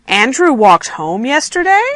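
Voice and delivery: statement turned question, YESTERDAY rising; questioning rise. Shown as a demonstration. Teacher reading a surprised question, rising on YESTERDAY. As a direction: lift YESTERDAY sharply at the end. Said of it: "Again, my voice goes up".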